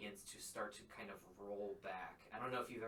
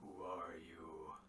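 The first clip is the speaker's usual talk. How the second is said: echoing, resonant, deep, reverberating giant voice; 4 semitones lower than usual. A waking giant looks at the two of you and asks, in a deep reverberating giant voice. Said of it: "it says in this deep reverberating uh, voice".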